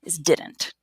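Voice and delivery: slow, clear "Did not is didn't"; drawn out for learners; slow model. Shown as a demonstration. Teacher slowly shows "didn't" to the class. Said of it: "you already know these".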